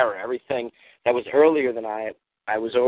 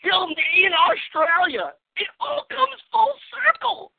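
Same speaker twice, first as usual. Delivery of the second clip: dramatic reveal voice; slower than usual. Acted. Mock dramatic reveal of a theory.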